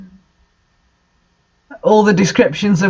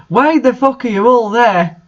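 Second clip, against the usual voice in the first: mock yell; 3 semitones higher than usual. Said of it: "I yielded as I jumped up".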